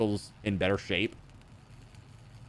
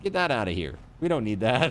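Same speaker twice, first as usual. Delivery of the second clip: said through a laugh; faster than usual. Real, not acted. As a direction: chuckle while saying it.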